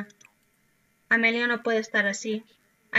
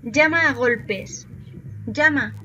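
louder, slow "Llama a golpes", punched "Llama"; urging on; 4 dB louder, slower than usual. Acted. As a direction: egg them on to bang. Urging the character to pound door. (animando a golpear la puerta, más fuerte)

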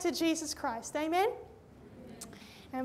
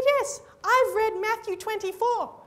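quoted woman; 5 semitones higher, 6 dB louder than usual. Retold or imitated. Woman eagerly agreeing, quoted.

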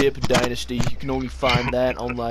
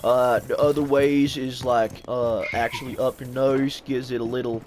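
put-on slipping lightly into an Australian accent; a hint of accidental Australian. Gamer explaining dip to friends, slight Australian accent. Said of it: "He sounded like a hella Australian".

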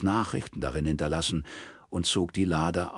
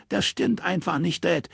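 high, firm contradiction from a grown daughter; lightly voiced daughter pushing back; defiant daughter; 12 semitones higher than usual. Daughter contradicting her father, lightly voiced defiance.

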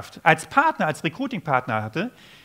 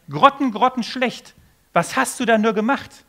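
self-critical outburst; 5 semitones higher, 5 dB louder than usual. Retold or imitated. Watching his own recording, mock disgusted outburst. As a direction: groan at yourself in mock horror. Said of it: "habe gesagt".

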